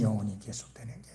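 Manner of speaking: low, soft and quick, 영원히 unforced; hushed repeat. Real, not acted. Preacher repeating what lasts forever, low and hushed. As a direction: drop 영원히 계속되는 게 to a low hush.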